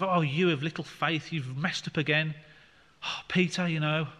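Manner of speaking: a hint of an exasperated telling-off; mock scolding. Jesus lightly chiding Peter, mild mock exasperation. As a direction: lightly play a fed-up teacher sighing at a pupil. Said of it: "Jesus didn't say it in the sense of".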